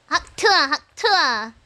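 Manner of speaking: slow drawn-out spit imitation; slow mock hawk tuah; hawk tuah meme. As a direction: mimic the viral spit sound.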